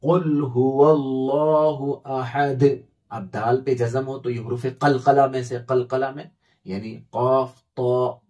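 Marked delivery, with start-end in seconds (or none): 0.0-2.6 अहद stopped on a bouncing दाल; pausal form. Shown as a demonstration. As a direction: end अहद with a qalqala stop. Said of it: "लेकिन जब वक्फ करेंगे, रुकेंगे". (वक्फ के साथ अहद)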